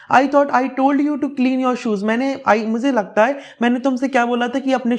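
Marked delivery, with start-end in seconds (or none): 0.1-2.0 scolding mother. Acted. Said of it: "उसे डांटती है".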